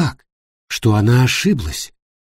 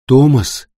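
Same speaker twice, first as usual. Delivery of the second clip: brief raised call; calling his name; 4 dB louder than usual. A narrator's reading. Jenni to unconscious Thomas, calling his name. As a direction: call to someone who isn't responding. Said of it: "позвала Йенни".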